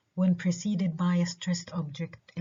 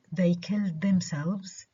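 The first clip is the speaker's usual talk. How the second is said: "themselves" left unstressed after the verb "killed". Shown as a demonstration. Teacher giving a similar example, "themselves" unstressed. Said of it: "so it's unstressed".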